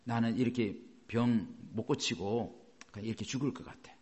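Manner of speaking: low, soft hopeless quote; despairing sick person. Retold or imitated. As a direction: sigh it out like someone giving up on healing. Quoting a despairing sick believer. (낮고 힘없이 절망하는 말투)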